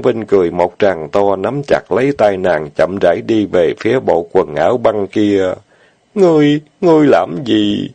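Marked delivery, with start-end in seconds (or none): 6.1-7.9 put-on higher girlish voice, coy and flustered; lightly voiced young woman, coy; coquettish fairy. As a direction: play the fairy protesting coyly in his arms. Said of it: "Tiên tử nũng nịu".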